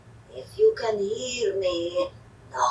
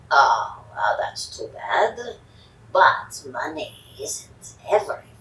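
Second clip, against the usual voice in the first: hushed disappointed aside; whispered aside; 3 dB louder than usual. Acted. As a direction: whisper the bad news.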